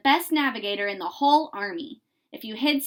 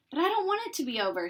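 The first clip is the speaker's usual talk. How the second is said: put-on child's protest; 6 semitones higher, faster than usual.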